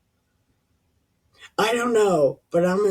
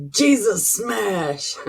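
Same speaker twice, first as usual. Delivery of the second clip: mock Hulk catchphrase; 4 semitones higher, 4 dB louder, slower than usual.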